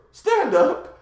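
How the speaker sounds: high, loud mock command; imitated sharp order. Dad finds son in bathroom, loudly ordering him up. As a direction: act out a dad's exasperated order.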